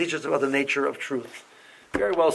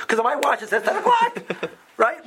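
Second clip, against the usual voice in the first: laughing; 9 semitones higher than usual. Real, not acted. Amused at his own watch.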